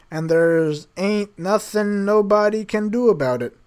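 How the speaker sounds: rereading the bad grammar in mock disbelief; incredulous reread. Real, not acted. Reader rereading a clumsy line to viewers, mock disbelief. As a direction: spell out the line she can't believe. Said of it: "Yep, I read that right. It literally says".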